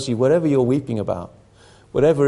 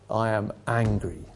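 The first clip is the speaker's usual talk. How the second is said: quiet anger; 2 semitones lower, 6 dB quieter than usual. Retold or imitated. Principal opening his reply from the pulpit, quietly angry. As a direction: say it softly, as a restrained first statement. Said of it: "then he repeated it loudly".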